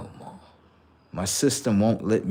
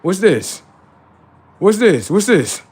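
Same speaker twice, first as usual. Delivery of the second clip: puzzled repeat; 8 semitones higher, 7 dB louder than usual. Retold or imitated. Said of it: "I'm like".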